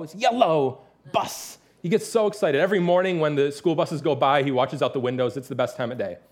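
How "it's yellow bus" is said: put-on slow "yellow" with a drawn-out, lingering L, toddler-style; toddler's L in yellow. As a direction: savour the L in "yellow" like a little boy. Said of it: "He really gets the L's in yellow".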